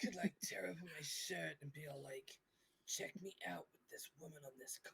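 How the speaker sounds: whispering. Real, not acted. Whispered silly boast.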